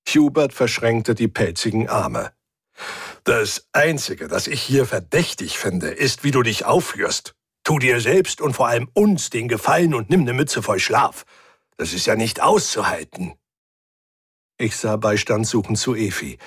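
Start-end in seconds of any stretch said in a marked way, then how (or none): 3.2-13.3 lightly growled, exasperated scolding; grumpy furry crewmate. Acted. Hubert telling Rick to get some sleep, mildly exasperated. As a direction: grumble with emphatic, bouncing stresses.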